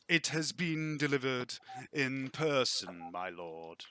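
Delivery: lightly voiced deferential servant; formal servant. Game master voices the servant.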